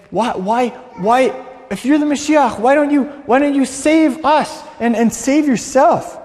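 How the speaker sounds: performed angry outcry, dragging out the last words; angry shouting. Acted. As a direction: yell it at the man beside you, pitch climbing. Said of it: "was screaming at the middleman".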